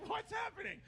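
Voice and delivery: high baffled squeak of a question. Retold or imitated. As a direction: ask it high and lost, half laughing. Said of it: "I'm like".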